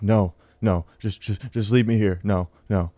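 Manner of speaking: put-on halting mumble; freaked-out stoned refusal. Stoned guy refusing his friend's help, freaked-out halting voice. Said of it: "I was literally talking like that".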